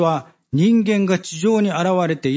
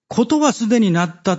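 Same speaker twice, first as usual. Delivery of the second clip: higher and louder, a grave declaration; raised, ringing pronouncement; solemn proclamation; 7 semitones higher, 4 dB louder than usual. Acted. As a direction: announce it as a weighty decree. 重大なこの宣言ですね.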